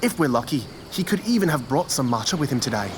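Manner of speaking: hushed wildlife narrator; nature documentary. Acted. Please enjoy this educational video.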